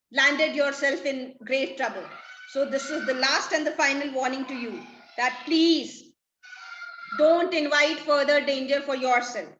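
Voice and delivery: scolding. Acted. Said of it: "scolds Trinculo and he says".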